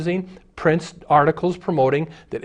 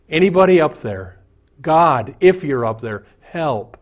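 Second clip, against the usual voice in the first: desperate call for help; 2 semitones higher, 5 dB louder than usual. Acted. Atheist calling out from cliff.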